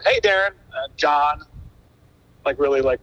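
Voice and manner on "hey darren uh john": imitating a matter-of-fact greeting. Coffee regular greeting the drummer by name, matter-of-fact. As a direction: greet him as plain business. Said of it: "matter of fact".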